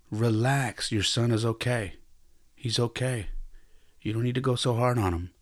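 soft, steady reassurance; calm advice. Retold or imitated. Father advising his son to ease up, softly. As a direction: tell him gently to ease off. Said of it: "my father telling me".

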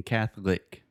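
"Catholic" said CATH-lic, the o dropped. Shown as a demonstration. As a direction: run "Catholic" together in two beats, no o. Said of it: "We do not pronounce the O".

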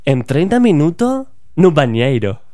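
Bolsonaro spoken in mock Portuguese, lightly done; fake Portuguese accent. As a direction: toss off a jokey Brazilian Portuguese line. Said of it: "Traducción". (acento portugués de broma, apenas marcado)

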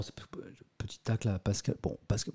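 soft whisper, a sly jab; conspiratorial whispered aside. Acted. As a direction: whisper the dig to the audience.

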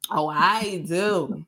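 OH, I DO drawn out slowly; savoring boast. Real, not acted. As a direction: stretch each word of "Oh, I do" with relish. Savoring boast about cussing right.

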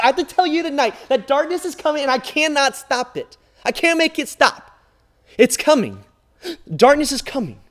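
loud, high anguished preaching; desperate sermon climax; preaching at full force. Acted. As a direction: cry it out, darkness is coming.

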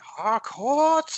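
high, loud call of his name; wife calling out. Retold or imitated. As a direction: call him out like the wife in the episode. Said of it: "his wife in and she's saying".

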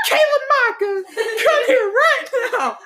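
high, slow scolding yell; yelling child's full name. Retold or imitated. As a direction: call the kid out from the doorway. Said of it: "and she's like".

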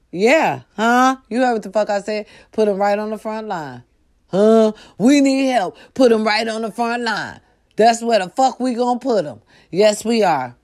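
loud, high, aggressive yelling; worked-up shouting rant; heated shouting. Real, not acted. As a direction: bark it at them like they didn't listen. Heated demand, swearing.

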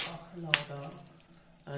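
slow, soft Trump voice with emphasis; Trump impression. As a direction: drawl it out like Trump. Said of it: "habla Trump, habla así".

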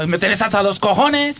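mock Spaniard accent; Spanish accent from Spain. Shown as a demonstration. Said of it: "o, o españoles".

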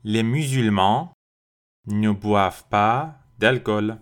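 very slow, clear sentence for learners; slow model sentence; slow repeat model. Shown as a demonstration. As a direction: stretch each word for repeating. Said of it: "Répétez après moi".

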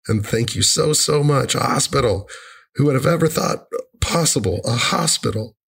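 retold joyful amazement; delighted mom. Acting out mom's delighted text.

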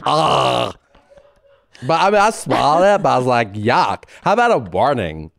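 mock disgusted girl-speak; imitation of an oversharing girl; mimicking young women. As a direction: retell it with exaggerated girly vowels. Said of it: "That is what they sound like".

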